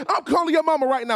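high, loud scolding shriek; angry mama. Retold or imitated. Mother at three in the morning yelling at the boys, furious. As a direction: scold like a mother whose new bed is broken.

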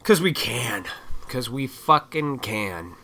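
lightly voiced mocking authorities; mock time-keepers. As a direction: sneer it like a smug official. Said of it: "They're like".

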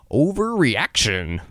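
overreaction said slowly, each syllable stretched; drawn-out self-talk. Shown as a demonstration. Calming himself after a panic, drawn out slowly. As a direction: stretch overreaction out like a wry thought to yourself. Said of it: "I shrug it off and think".

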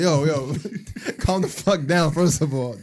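half-laughing yell at the pushy worker; mock yell. Telling off the drive-thru worker, a laughing mock yell.

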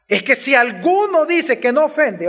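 lifted, mildly sarcastic quote. Acted. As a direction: voice the verse with light sarcasm. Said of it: "entonces él con sarcasmo dice".

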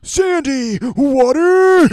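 high squeaky cartoon voice; SpongeBob impression. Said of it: "let me go first".

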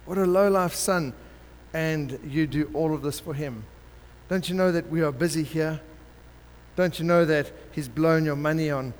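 acted outrage of the self-righteous brother; mild indignant brother voice; indignant older brother. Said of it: "looking at the father with indignation and says".

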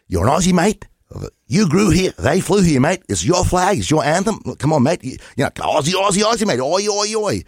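hammed-up flag-waving mate, ending in an "Oi, oi, oi" chant; mock Aussie patriot. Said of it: "Everyone told them".

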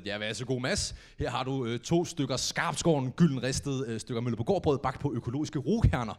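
a hint of a snooty waiter; mock waiter presentation. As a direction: present cheap toast like fine dining. Serving toast like a chef.

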